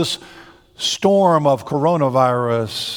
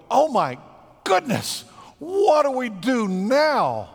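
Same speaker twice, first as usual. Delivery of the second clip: mock panic; 7 semitones higher, slower than usual. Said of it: "He's not gasping. He's not panicking".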